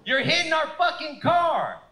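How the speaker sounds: loud, high mock-outraged yell; high-pitched retold outburst; acted angry yell. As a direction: imitate a girlfriend yelling at another driver. Girlfriend confronts the other driver.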